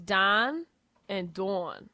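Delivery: "Don" and "Dawn" with distinct New Orleans vowels; mom's New Orleans vowels on "Don" and "Dawn"; two different pronunciations. Shown as a demonstration. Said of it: "They pronounce those two different ways".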